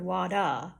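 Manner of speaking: "wada" for water, ending in uh; "wada", slow, final R left off; vowel replacing R. Shown as a demonstration. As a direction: end "wada" on an open vowel, no R. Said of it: "like the vowel sound".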